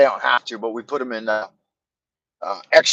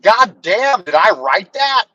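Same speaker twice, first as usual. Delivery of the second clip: mock amazement at his own writing; 6 semitones higher than usual. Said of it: "I was like".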